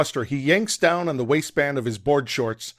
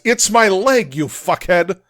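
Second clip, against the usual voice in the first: high loud furious yell; angry yell; 6 semitones higher, 4 dB louder than usual. Acted. Strom yells at Will hitting his chest, furious. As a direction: yell at him in outrage. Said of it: "He shields his face and yells".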